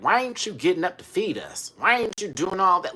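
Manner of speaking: high, loud whining complaint; mock indignant pet voice; demanding cats. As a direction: nag like hungry cats wanting service. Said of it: "they were like".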